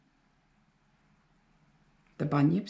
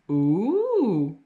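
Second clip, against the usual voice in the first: spooky moan. A narrator's reading. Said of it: "moaned the Shaggy Gully chorus".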